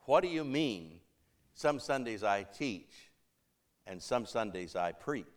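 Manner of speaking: lightly acted nervousness, voice dropping away; tentative question. Preacher working up nerve to ask matriarch, tentative and low. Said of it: "got up enough nerve to ask her".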